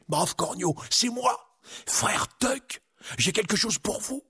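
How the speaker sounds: high-voiced little friar; high, friendly monk voice. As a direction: announce yourself discreetly in a high voice. Monk calling at a door.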